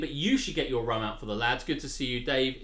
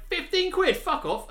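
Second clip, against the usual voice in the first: high, loud mock disbelief; retold outburst; 5 dB louder than usual. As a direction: imitate a friend balking at the price. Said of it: "and he went".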